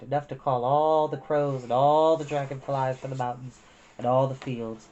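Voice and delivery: ordinary delivery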